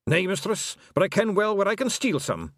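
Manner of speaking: lightly voiced Scots pixie; a touch of wee Scottish flier; Hamish the Feegle aviator. Hamish answering Tiffany, lightly voiced pixie.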